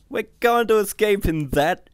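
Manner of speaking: high, loud incredulous voice; appalled disbelief. A narrator's reading. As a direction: balk at the wreck in alarm. Puke appalled at rotting ship.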